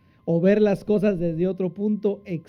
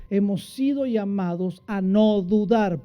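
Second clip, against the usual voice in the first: ordinary delivery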